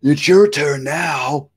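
slow, loud big-brother goat; big billy goat. A narrator's reading. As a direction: send younger brother off, slowly. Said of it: "Great Big Billy Goat Gruff said".

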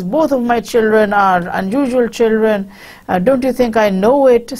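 a touch of excitement, voice lifted a little; lightly acted mother getting worked up; mildly carried away. Mother gushing about her unusual children, mildly carried away. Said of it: "she sort of gets carried away".

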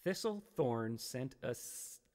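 "Thistlethorn" sounded out slowly, stumbling; slow careful tongue twister. Shown as a demonstration. Streamer struggles with a viewer's tongue twister, stumbling slowly. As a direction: pick through "Thistlethorn sent a" slowly. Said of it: "Try it".

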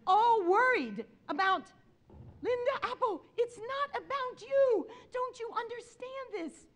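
put-on high, loud exasperated Spanish-accented rebuke; imitated impassioned Spanish-accented scolding; Julio Esteban. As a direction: drive it home like an exasperated Spanish professor. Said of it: "in his impeccable Spanish accent".

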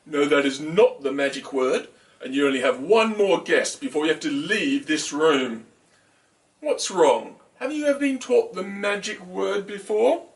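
lightly voiced stern owl; wise hooting owl. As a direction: speak as a patient owl. Owl speaking in story.

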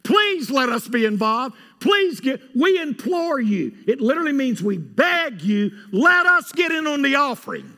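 loud high imploring plea; pleading loudly. Retold or imitated. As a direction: beg urgently to be let in. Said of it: "They begged to be involved".

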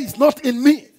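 shouted declaration. Shown as a demonstration. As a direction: declare it for the congregation to repeat.

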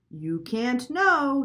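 slow, high, loud bird voice; parrot voice. Acted. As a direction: drag it out like a parrot. Lena the parrot repeats her line.

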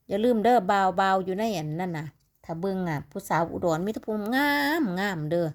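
playful Udon Isan dialect; สำเนียงลาวอุดรแบบหยอกล้อ; Udon Lao dialect. Shown as a demonstration. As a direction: tease in Udon Lao speech. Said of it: "ให้พี่เว้าลาวอุดรแน่เนาะ".

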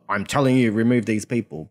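a stern command, no please; firm order. Retold or imitated. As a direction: tell them flatly to do it.

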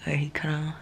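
unvoiced hushed whisper. Real, not acted. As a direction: whisper it softly. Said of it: "I'm just gonna talk like this".

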